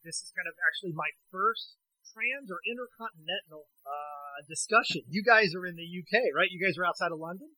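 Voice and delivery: tinny voice on a bad phone line; tin can phone. Real, not acted. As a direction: sound like a poor cell connection. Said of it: "I'm gonna sound a little bit like I'm talking through a tin can or on a bad cell phone reception".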